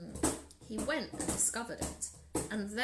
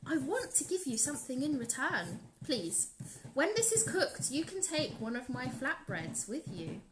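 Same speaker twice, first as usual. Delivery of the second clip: grateful lady; 3 semitones higher, 4 dB quieter than usual. Acted. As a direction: thank him with delight. Lady character voice.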